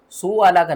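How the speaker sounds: "सू आला का" with सू left long and smooth; wrong reading demo. Shown as a demonstration. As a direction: say "सू आला का" without the hamza catch. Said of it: "नहीं पढ़ना". ("सू आला का" बिना झटके के, ग़लत तरीका)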